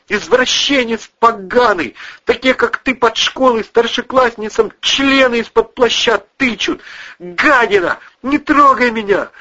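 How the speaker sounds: high, loud furious tirade; screaming insults. Acted. Wife screaming at the cousin, loud furious abuse. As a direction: hurl abuse at him.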